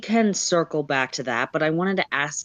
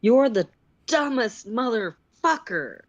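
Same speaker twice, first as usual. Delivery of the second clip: shouting; 5 semitones higher than usual. Acted. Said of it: "The sylph shouts".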